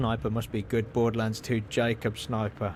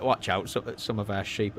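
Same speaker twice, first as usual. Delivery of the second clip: half-hearted attempt at a Welsh voice; barely Welsh, in nearly your own voice; weak Welsh accent attempt; failed Welsh accent; 3 semitones lower than usual. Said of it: "that's not a Welsh voice".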